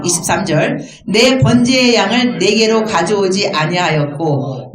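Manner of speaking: slow, measured recitation; scripture reading. Real, not acted. Preacher leading congregation in reading the verses, measured recitation. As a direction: read it out evenly, phrase by phrase.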